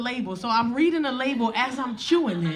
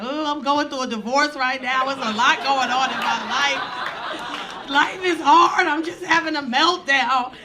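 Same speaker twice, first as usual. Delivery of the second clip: hammed-up crying that swells into a drawn-out wail; retold crying; 3 semitones higher, 4 dB louder, slower than usual. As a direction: act out a tearful meltdown. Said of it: "I start crying".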